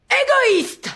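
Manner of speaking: high shouted insult, hammed-up dictation; mock shout. Teacher dictating, acting out the line with a high shout. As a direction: fling the word like a wronged lover. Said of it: "ça va pas de crier comme ça".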